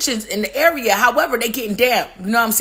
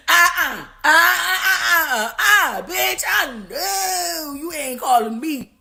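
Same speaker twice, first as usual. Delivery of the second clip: whiny uh-uh, then slow laughing put-down; sassy refusal; 3 semitones higher, slower than usual. Retold or imitated. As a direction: refuse the call with a laughing sneer. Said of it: "Cyprus ... ain't answering it".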